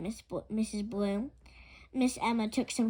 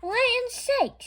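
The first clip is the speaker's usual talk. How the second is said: high, loud cry of dismay; Land's sakes, high and astonished; shocked exclamation; 13 semitones higher, 6 dB louder than usual. Acted. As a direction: gasp it out at the sight. Miss Emma shocked by chicken pen.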